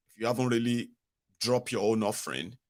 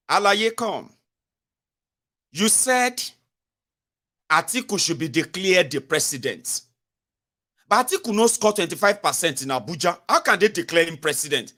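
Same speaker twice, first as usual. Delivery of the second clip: mock lawyer; 6 semitones higher, 3 dB louder than usual. Lawyer grilling witness in court.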